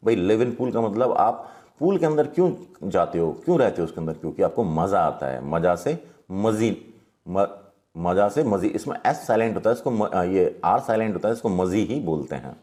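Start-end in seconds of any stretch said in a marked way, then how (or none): 5.5-6.9 मजी said slowly with a clear ज; slow, clear pronunciation. Shown as a demonstration. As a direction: speak मज़ा से मजी slowly, sound by sound. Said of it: "बिल्कुल साफ साफ बोलना है इसको". (मजी को धीरे, साफ़-साफ़ बोलें)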